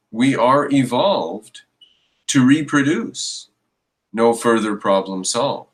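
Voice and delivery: slow, measured verse recital; poem recital. Shown as a demonstration. Commenter reciting his little poem to viewers, slow and measured. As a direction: recite it like a little rhyme, unhurried. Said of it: "I have a little poem for you".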